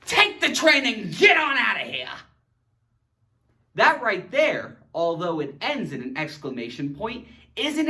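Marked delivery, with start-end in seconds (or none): 0.0-2.1 shouted command to get out; mock loud order. Shown as a demonstration. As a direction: order them off firmly. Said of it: "I could also say this".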